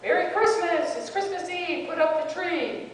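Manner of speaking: retold yelling. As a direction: call it out excitedly from upstairs.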